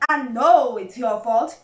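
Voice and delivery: loud, slow, emphatic reproach; furious. A narrator's reading. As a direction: read it as an angry accusation. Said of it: "said Badger furiously".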